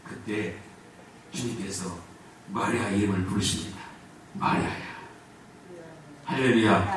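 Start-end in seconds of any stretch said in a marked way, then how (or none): 4.3-4.9 Jesus whispering 마리아야 gently, almost breath only; Jesus whispering the name to weeping Mary; soft call. Acted. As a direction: breathe 마리아야 like a tender secret.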